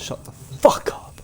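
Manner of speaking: slow whispered mock insult. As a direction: hiss it as a joke. Mock insult, then "I'm joking.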